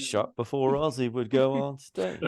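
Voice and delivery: high, put-on storyteller character; Wayne's World impression. Podcaster quoting the guy in Wayne's World, high impression. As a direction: imitate the film's roadie character. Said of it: "line from Wayne's World where the guy's like".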